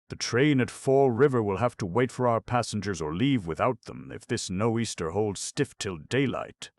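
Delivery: loud and high, over the gale; captain shouting orders over the wind. A narrator's reading.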